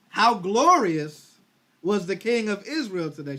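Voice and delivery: drawn-out, loud mock praise; sarcastic wife mocking the king. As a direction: sneer the praise slowly. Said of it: "She said it with sarcasm".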